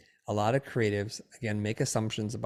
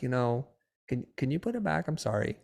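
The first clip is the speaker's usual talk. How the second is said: polite declining; 2 semitones higher than usual. Acted. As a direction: ask gently, like a polite refusal. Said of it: "you can just politely decline".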